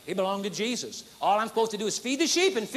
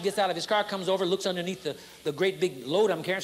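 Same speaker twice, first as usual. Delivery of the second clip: ordinary talk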